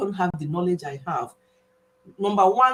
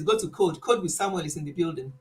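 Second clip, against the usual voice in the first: put-on lower, light take on a Scottish accent; imitating Scottish-tinged speech; 4 semitones lower, 4 dB quieter than usual. Vlogger quoting a Scotland-based creator, lightly imitated Scottish accent. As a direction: borrow a hint of Scottish lilt. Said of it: "the way he says".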